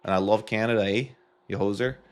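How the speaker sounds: light, jokey Canadian accent. Shown as a demonstration. Speaker joking about their own country, light Canadian accent. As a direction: lean a little into a Canadian accent. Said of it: "I have a Canadian accent".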